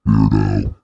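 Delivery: mock menacing villain. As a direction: threaten like a processed movie villain. Menacing villain through voice changer.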